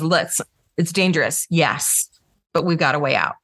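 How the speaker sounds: low, controlled reassurance; steady leader in a crisis; composed rescuer. Acted. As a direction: take charge calmly, in measured phrases. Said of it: "they've got their stuff handled".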